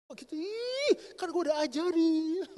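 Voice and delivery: scornful impatience. Retold or imitated. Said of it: "dulu ngomong gini".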